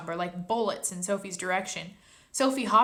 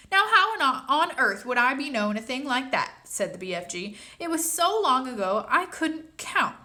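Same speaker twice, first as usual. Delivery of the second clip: BFG giant voice; 5 semitones higher, 5 dB louder than usual. Acted. BFG baffled reply.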